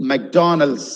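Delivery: "McDonald's" as "mak-donalds"; careful "McDonald's"; correct pronunciation. Shown as a demonstration. Teacher modelling the word.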